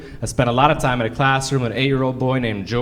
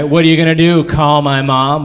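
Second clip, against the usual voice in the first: mock taunt; 4 dB louder than usual. Mocking students' taunt.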